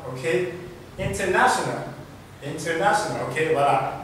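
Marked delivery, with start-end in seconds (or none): 1.0-3.2 "international" British-style with the T sounded. Shown as a demonstration. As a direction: attempt an English accent, clear T in "International". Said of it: "je ne suis pas anglais". (« international » à l'anglaise, T prononcé)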